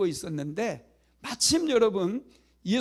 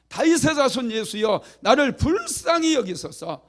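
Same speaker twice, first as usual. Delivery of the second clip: loud, higher desperate plea to Jesus; blind beggar crying out; 5 semitones higher, 6 dB louder than usual. Acted. Blind Bartimaeus cries out to passing Jesus, loud pleading. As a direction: cry out for mercy, begging. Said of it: "소리를 지르기 시작합니다".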